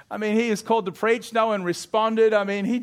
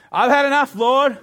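despairing prayer; 3 semitones higher, 5 dB louder than usual. Acted. Elijah prays to die.

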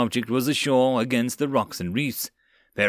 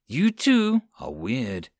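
disgusted; slower than usual. Acted. Cat girl disgusted.

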